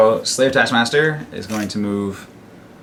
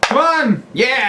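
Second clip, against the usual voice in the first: high, loud cheering; root hard for the roll; excited cheer; 5 dB louder, much slower than usual. Real, not acted.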